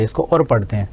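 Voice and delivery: اور said short and quick as 'or'; quick aur. Shown as a demonstration. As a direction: clip اور fast so the metre holds. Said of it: "تیزی کے ساتھ". (اور کو تیزی سے مختصر پڑھیں)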